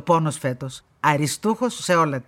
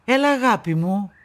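sweetened tender voice; 3 semitones higher than usual. Acted. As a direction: coo it lovingly to the granddaughter. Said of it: "την καινούρια και λαϊδιστή φωνή της".

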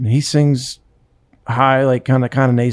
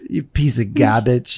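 put-on Boston accent; 4 semitones lower, slower than usual. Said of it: "from Boston's drunk".

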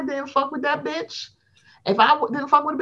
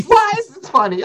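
higher, louder laughing question; high mock plea; 9 semitones higher, 4 dB louder than usual. Host repeats her own reaction to her cohost, higher and laughing. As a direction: beg it between giggles. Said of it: "I said".

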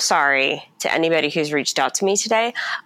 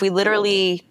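whisper; 4 semitones higher, faster than usual. Real, not acted. Confiding about catching covid.

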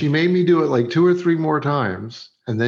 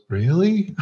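a hint of a hopeful, questioning actress; higher rising question, lightly imitated; retold hopeful actress; 5 semitones higher than usual. Retold actress warming to flattery.

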